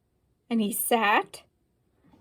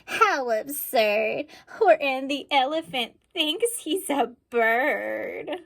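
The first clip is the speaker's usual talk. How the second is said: mocking taunt; 3 semitones higher than usual. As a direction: tease him like a bully. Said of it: "they yelled".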